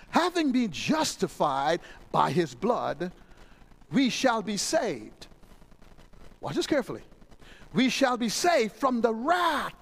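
slow, weighty reading of the verse; scripture reading. Real, not acted. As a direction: read the verse deliberately.

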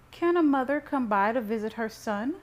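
high, loud question with a rising end; wheedling mother. A narrator's reading. Mother excuses her visit to her son, wheedling.

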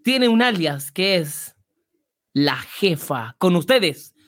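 showman host presenting a star; grand entrance announcement. Pretend. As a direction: stretch out the final name grandly. Host introduces the boss. (gran anuncio de entrada, alargando Alicia Bonilla)

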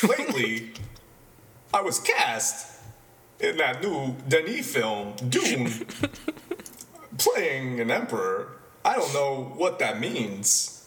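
slow, halting Walken-style cadence with odd pauses; Christopher Walken impression. Podcast host doing Walken on request, slow and halting. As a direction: drag each phrase out with strange breaks. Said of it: "let's do Christopher Walken".

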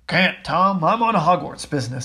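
big booming half-giant; loud rough gamekeeper voice; Hagrid voice. Acted. Hagrid's voice in story.

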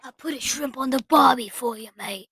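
1 bad Australian accent. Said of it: "That accent was bloody rubbish".

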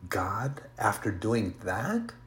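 a slow, hushed whisper of mock disbelief; taunting whisper. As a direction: whisper the taunt slowly, sowing doubt.

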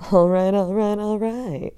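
loud, high drawled all right; McConaughey impression. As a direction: do the McConaughey catchphrase. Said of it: "and goes".

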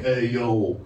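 put-on Italian wiseguy pitch; Italian salesman impression. The speaker pitches heaven like a car salesman, mock Italian accent. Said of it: "I'll do an impression. ... like, they're Italian".

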